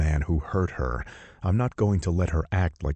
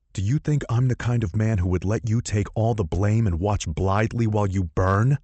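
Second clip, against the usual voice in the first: demanding; 4 semitones higher, 3 dB louder than usual. Acted. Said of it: "I demand".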